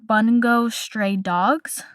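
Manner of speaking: "Bungo Stray Dogs" sounded out slowly, word by word; unsure pronunciation. Real, not acted. Host attempting an anime title she may mispronounce, slow and careful. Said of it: "I'm gonna mispronounce this".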